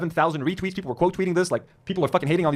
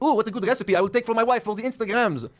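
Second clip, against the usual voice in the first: higher, mocking put-on husband voice; mock influencer voice; 6 semitones higher than usual. Streamer mocking IDF husband, higher put-on voice. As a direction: parody a smug soldier praising olives.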